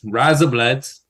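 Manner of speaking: "Razor blades" with Kiwi vowels, like "rise-uh bluds"; Kiwi accent. Shown as a demonstration. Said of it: "that's how you say razor blades".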